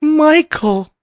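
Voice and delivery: high, drawn-out pleading with halting pauses; Diane Keaton impression. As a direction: plead dramatically in a high, slow voice. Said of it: "Diane Keaton's performance in that is so specific".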